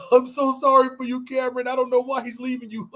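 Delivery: mock a friend sobbing on cue, laughing through it; hammed-up teary comfort to Cameron, a bit high; mock crying friend. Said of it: "y'all can cry on demand".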